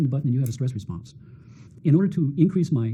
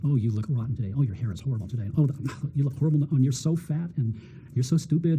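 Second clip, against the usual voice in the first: negative inner voice. Retold or imitated. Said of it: "a negative little voice dialoguing".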